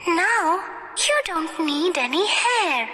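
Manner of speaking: put-on high, tender child's voice; gentle little girl. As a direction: soothe a doll in a high girlish voice. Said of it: "she said gently".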